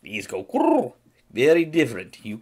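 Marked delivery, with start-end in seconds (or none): 0.0-0.9 Russian guru. Shown as a demonstration. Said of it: "they have it in the Russian accent".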